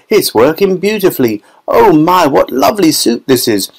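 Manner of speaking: put-on high girl's voice with a squeal on "Oh my"; delighted girl. A narrator's reading. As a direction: savour it like a treat. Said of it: "said Violet".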